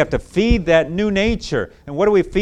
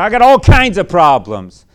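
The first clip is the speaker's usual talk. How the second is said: put-on bitter teen; 3 semitones higher, 9 dB louder than usual. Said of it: "bitter about it".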